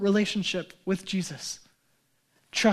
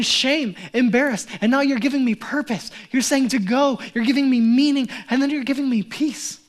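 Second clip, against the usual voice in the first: healed woman's grateful outcry; 4 semitones higher, 5 dB louder than usual. Acted. Woman voiced thanking Jesus.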